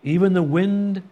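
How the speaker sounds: hushed, slow awe; awed whisper. Acted. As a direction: whisper it in frightened wonder. Terrified disciples voiced in awe.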